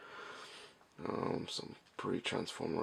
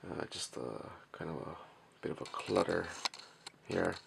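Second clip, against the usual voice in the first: monotone voice. Real, not acted. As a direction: speak in a flat monotone so nobody wakes. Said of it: "sorry for the, uh, monotone voice and, uh, kind of quiet demeanor".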